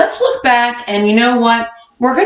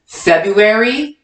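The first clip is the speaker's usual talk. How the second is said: read-along; slower than usual. Shown as a demonstration. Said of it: "Read it with me, kindergartners".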